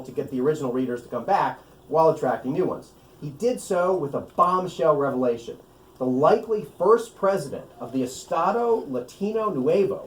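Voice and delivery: a measured book-reading voice, unhurried at the start; reading aloud from his book. Acted. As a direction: read the passage to the audience. Author reads from his novel.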